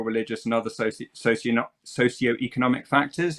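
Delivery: stumbling through chattering teeth; cold, teeth chattering on the words. Real, not acted. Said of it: "it's 'cause my teeth are chattering".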